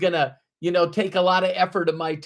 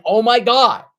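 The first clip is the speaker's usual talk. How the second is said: loud, high "Oh my God" bursting with excitement; eager beginner gushing loudly about a no-brainer; excited gush; 4 semitones higher, 6 dB louder than usual. Retold or imitated. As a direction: gush like a newbie who just found a sure thing. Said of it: "so excited with enthusiasm".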